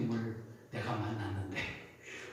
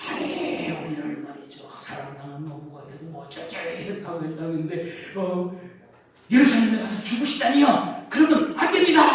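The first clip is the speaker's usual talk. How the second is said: Peter scolding his teacher, rising to an outburst; rough protest; 8 dB louder than usual. Retold or imitated. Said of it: "거칠게 항의하는 거예요". (베드로가 예수님께 거칠게 항의하며 점점 높고 크게 따지는 목소리)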